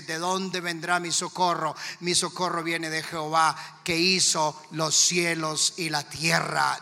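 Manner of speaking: steady psalm recitation, slowing at the end; believer's confident declaration. Acted. Believer in the supernatural answers with faith, assured and steady. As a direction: declare it firmly, without panic. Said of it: "le cree a Dios dice".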